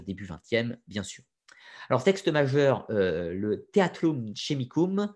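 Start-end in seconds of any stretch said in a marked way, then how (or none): 3.7-5.1 slow Latin title said with a French accent. Real, not acted. Lecturer apologizing to students for his Latin, slow French-accented reading. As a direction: spell out "Theatrum Chemicum" slowly, French vowels and stress. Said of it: "vous m'excuserez pour mon accent atroce".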